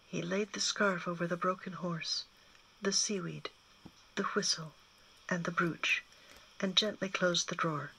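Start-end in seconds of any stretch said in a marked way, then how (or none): none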